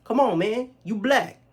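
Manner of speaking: imitating a put-on Black accent, high and loud; mock a coworker's exaggerated Black accent. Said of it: "in a black accent".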